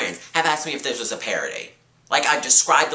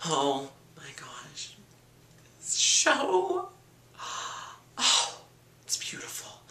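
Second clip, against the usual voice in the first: gushing fan voice; 4 semitones higher, 6 dB quieter, slower than usual. Retold or imitated. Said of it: "some people are like".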